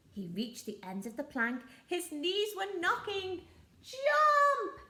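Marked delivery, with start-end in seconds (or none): 3.8-4.8 high, loud barked order; pirate yell. Acted. Pirates ordering the troll off the plank, loud yell. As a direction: shout the command at him. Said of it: "yelled the pirates".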